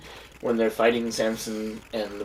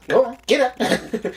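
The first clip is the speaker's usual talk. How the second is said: character voice; 10 semitones higher, 3 dB louder, slower than usual. Retold or imitated. Quoting a movie character.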